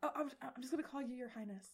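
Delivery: nervous stuttering. Acted. Game master as the flustered mom answering the princess, nervously stammering. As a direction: trip over the first words, deferential. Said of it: "she's, like, kinda, like, stuttering".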